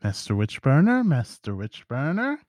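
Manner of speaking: lightly voiced old lady, pitch sweeping up; a hint of old-lady singsong. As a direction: greet with a rising lilt on each title. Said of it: "there's two just old ladies".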